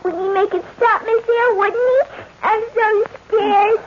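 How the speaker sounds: put-on tearful little girl, slowing on so scared; frightened child crying. Adela begging her governess for her daddy, crying. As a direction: let the fear spill into tears.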